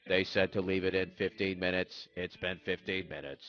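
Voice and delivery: stiff, measured robot-like recital; robotic rule-follower voice. Acted. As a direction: recite the instructions mechanically. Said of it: "I'm a little more robotic".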